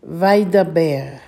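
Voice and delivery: slow, measured repeat of the word; unhurried model pronunciation. Shown as a demonstration. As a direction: draw it out slowly for learners. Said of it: "as I say it slowly".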